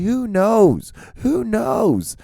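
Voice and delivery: who knows, thrown up high; exasperated high rise. Real, not acted. Repeated rhetorical exclamation.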